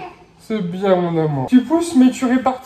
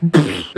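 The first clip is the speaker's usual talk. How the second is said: imitated poop sound; 13 semitones lower than usual. Retelling baby's explosive diaper, mock puff. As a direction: lower mock raspberry puff. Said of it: "ça fait".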